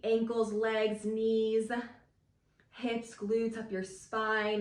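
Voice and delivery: calm guiding voice; guided visualization. Acted. Leads a grounding visualization.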